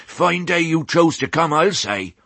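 put-on high-pitched rustic old ewe; puffing old sheep. A narrator's reading. Old sheep to young piglet mid-chase, puffed. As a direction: puff it out high, in country speech. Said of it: "puffed the old sheep".

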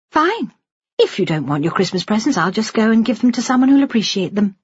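high-pitched mock huff; playful friend pretending to withdraw a treat; good-humoured nurse.

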